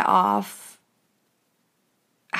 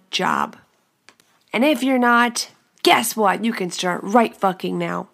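rousing pep talk; 4 dB louder than usual. Real, not acted.

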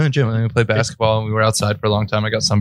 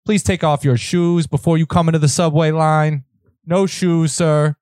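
fed-up barked instructions; 7 semitones higher than usual. Pretend. TSA agent role play.

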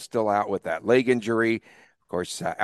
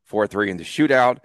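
put-on Boston accent; 2 semitones higher, 3 dB louder than usual. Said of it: "trying to get out of that Boston accent mode".

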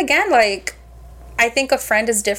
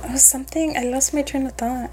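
quiet, trailing, searching memory; 7 dB quieter than usual. Real, not acted. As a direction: fade out while trying to remember. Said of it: "I'm annoyed".

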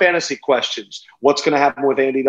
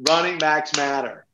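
softer echo, stress on running; softer repeat; 5 dB quieter than usual. Shown as a demonstration. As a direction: repeat it quietly to yourself. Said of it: "very excited right now".

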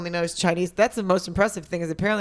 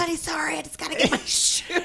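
mock apology; 10 semitones higher than usual. Mimicking someone excusing a retrieved shoe.

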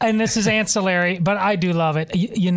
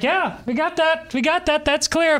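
mock onlookers' reply; 10 semitones higher than usual. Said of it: "Everybody's like".

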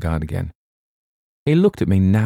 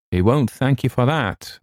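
sharply; 7 semitones higher than usual. A narrator's reading. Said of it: "I answered sharply".

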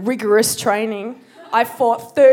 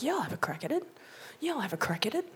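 mock bravado; 14 dB quieter, much faster than usual. Agreeing to fight, self-mocking.

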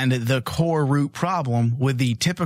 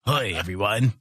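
mock-macho tough guy; put-on manly sign-off; deep voice; 2 semitones lower than usual. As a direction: play it overly masculine. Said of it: "I'm overly masculine".

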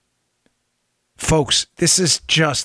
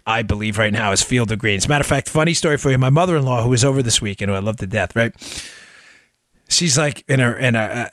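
ordinary talk

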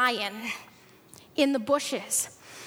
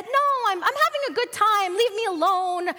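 lightly voiced defiant child; mildly whiny, higher-pitched boy's refusal; protesting son; 4 semitones higher than usual. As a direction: brush Dad off, wanting more playtime. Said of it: "the son said".

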